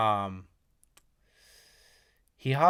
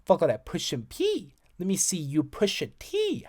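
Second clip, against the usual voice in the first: lightly voiced rapper delivery, a bit higher; imitating a rapper; 8 semitones higher than usual. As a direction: say it like the rapper does. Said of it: "I gotta say it like him".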